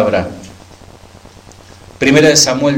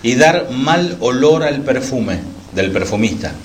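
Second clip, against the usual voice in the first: scripture reading. Acted. Pastor reads scripture aloud.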